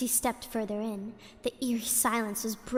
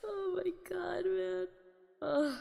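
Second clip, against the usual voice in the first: breathless giggle; laughing; 7 semitones higher, 7 dB quieter, slower than usual. Real, not acted. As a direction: laugh through the words. Breaks up after story.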